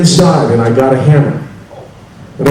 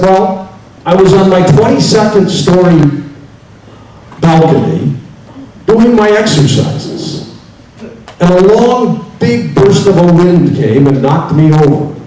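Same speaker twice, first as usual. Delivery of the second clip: a lightly voiced, higher-pitched man retelling his fall; second man's higher voice; 6 semitones higher than usual. Man in underwear telling Saint Peter his fall, higher and aggrieved. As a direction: tell it as the wronged man, higher and worked up.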